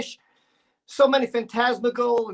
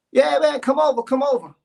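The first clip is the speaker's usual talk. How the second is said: 1 eager invitation; 3 semitones higher, 6 dB louder than usual. Retold or imitated. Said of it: "He's like".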